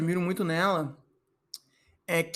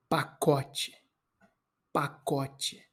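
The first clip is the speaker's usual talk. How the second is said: palavra saboreada; 5 semitones lower, 5 dB quieter, much slower than usual. Shown as a demonstration. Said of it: "convivem em harmonia".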